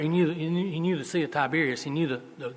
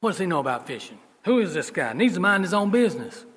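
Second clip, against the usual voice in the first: scoffing disciples; 3 semitones higher, 4 dB louder than usual. Acted. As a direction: dismiss the stranger with growing irritation. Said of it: "I'm putting words in their mouth".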